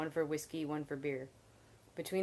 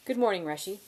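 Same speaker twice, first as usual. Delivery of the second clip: higher and louder, cheerful hello; bright greeting; 5 semitones higher, 8 dB louder than usual. A narrator's reading. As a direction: call out a sunny good morning. Bast greets innkeeper brightly.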